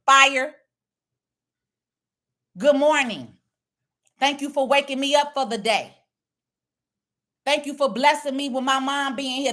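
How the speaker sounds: morning prayer. Shown as a demonstration. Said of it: "this is how I would be talking".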